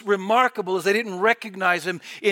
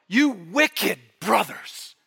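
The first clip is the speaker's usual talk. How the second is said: stern Joseph rebuke; much slower than usual. Acted.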